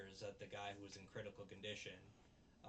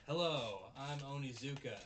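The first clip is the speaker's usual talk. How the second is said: lightly acted loud, higher greeting; grand entrance; 4 semitones higher, 8 dB louder than usual. Onizuka magically appears before the board, mock grand entrance. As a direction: announce yourself loudly, punching the hello.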